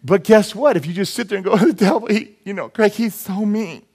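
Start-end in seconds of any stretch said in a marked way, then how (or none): 1.6-3.8 put-on poor-me voice; mock whining. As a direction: imitate a helpless tattler. Mocks a helpless complaining believer.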